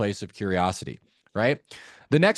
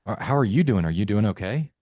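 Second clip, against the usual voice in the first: dropped, sincere sympathy; concerned tone. Shown as a demonstration. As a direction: offer gentle condolence, then check on them. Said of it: "go into a concern tone".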